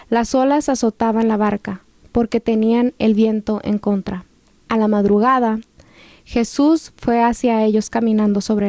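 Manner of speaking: measured scripture reading with pauses; lectura bíblica. A narrator's reading. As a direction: read the passage aloud, phrase by phrase. Reads a Bible passage. (lectura bíblica pausada)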